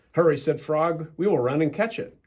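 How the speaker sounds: gentle bedtime storybook reading; storybook narration; reading to children. A narrator's reading. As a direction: read it like a bedtime story for kids. Reads a children's story aloud.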